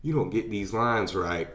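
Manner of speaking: quick start, then measured imitated menace; mock serious threat. Actor threatens himself in the mirror over his lines, mock serious. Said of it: "He gets all serious".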